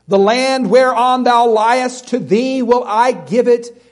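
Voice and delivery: booming Bible reading; forceful scripture reading. Acted. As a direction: proclaim the verses like thunder from the pulpit.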